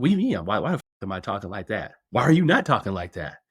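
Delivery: playful outraged "what do you mean"; mock disbelief. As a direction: fire back as if the question were absurd. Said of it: "I said".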